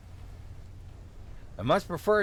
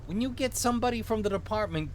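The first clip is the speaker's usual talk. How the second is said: higher-pitched Minnesotan cop; vaguely Minnesotan accent; 6 semitones higher, faster than usual. Acted. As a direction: instruct the kid in a Minnesotan accent. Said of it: "give him a vaguely Minnesotan accent".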